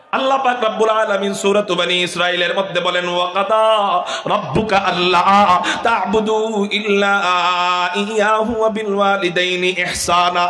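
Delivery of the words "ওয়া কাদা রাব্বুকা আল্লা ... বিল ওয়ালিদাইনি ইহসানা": slow, chanted Arabic verse; Quran recitation. Acted. Preacher reciting scripture to the congregation, slow and chanted. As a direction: intone the verse slowly, like recitation.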